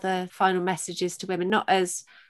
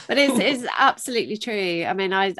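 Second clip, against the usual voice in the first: choked up; 3 semitones higher, 5 dB louder than usual. Real, not acted. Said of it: "made me totally well up".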